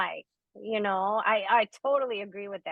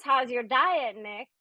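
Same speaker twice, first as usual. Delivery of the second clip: imitating a nosy friend; 4 semitones higher than usual. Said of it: "when she says".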